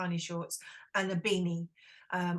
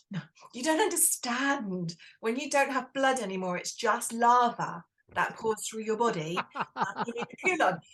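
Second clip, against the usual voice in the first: a touch of exasperation, slightly higher; mock exasperated; 3 semitones higher than usual. Guest retelling her plea to the instructor, mildly exasperated. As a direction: explain it like she should already know, lightly hammed.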